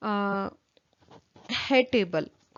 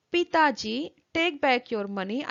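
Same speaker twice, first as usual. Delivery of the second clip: loud refusal. Retold or imitated. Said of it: "in a very loud voice".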